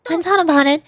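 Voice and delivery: expressive visual-novel style reading; game dialogue read-aloud. Acted. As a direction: read the story lines aloud with light acting.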